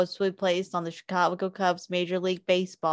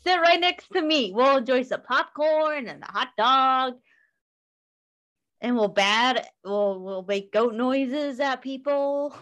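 goat voice; 5 semitones higher than usual. Pretend. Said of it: "That was my impression of a goat".

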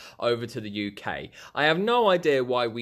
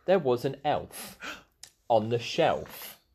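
slow storybook reading; slow wise elder. Acted. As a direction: read it like an old storyteller. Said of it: "I've got my book".

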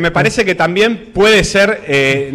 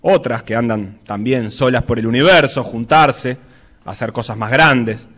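measured reflective reading over music; radio essay narration. Acted.

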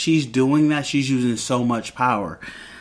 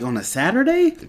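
high questioning lift, imitating a kid; retold doubtful question, pitched well up; mock disbelief; 11 semitones higher than usual. Kids question Mom about Dad working, mildly incredulous.

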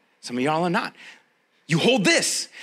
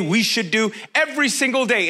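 ordinary delivery

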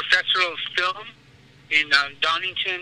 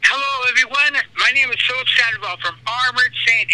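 radio promo; 6 semitones higher than usual. Shown as a demonstration. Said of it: "You wanna do a promo I D for us?".

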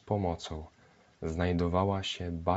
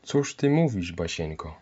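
alarmed. Acted. Mother frightened by Basia's coffin joke, alarmed cry. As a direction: cry out in dismay at her daughter's joke. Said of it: "przeraziła się pani Rankowska".

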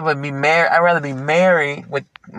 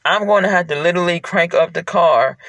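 crying; 3 semitones higher than usual. Real, not acted. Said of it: "'cause I'm actually crying".

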